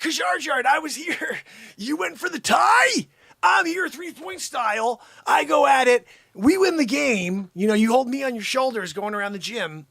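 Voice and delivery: half-joking gripe at the teammate; mock teammate complaint. Pretend teammate scolding Kajgaard about the shot, mock complaint.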